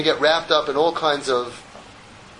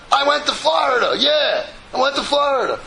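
frazzled patient; 11 semitones higher than usual. Retold or imitated. Stressed patient insists to the doctor, high and flustered.

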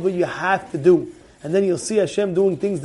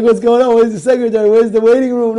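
baffled patient; 4 semitones higher, 7 dB louder than usual. Retold or imitated. Patient confused in doctor's room.

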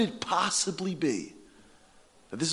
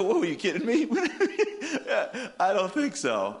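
laughing mock refusal, higher; laughing disbelief; 7 semitones higher than usual. The Jews answering God, laughing disbelief. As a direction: scoff through a laugh. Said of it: "And the Jews go".

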